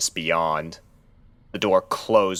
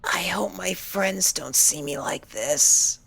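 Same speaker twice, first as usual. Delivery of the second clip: worried; 12 semitones higher, slower than usual. A narrator's reading. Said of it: "she said to nobody".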